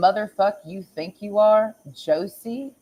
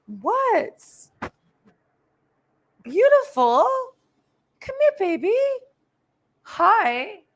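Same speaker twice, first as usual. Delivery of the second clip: cooing to the cat; 13 semitones higher, 4 dB louder, slower than usual. Real, not acted. Greeting her cat as it comes inside, high baby talk.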